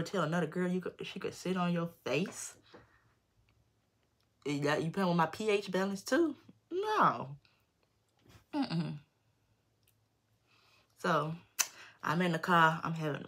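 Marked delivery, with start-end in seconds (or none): 4.5-9.0 slightly higher, voice catching as if crying; crying over being played; near tears. Real, not acted. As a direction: let the hurt break through.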